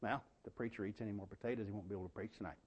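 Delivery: low, soft and quick; a quick quiet jab at the preacher; under-the-breath dinner-table dig. Retold or imitated. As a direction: say it low and fast, as an aside. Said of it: "said like that, too".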